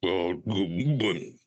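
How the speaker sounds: slow mock toad voice; toad-like croak. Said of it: "What are you, a toad?".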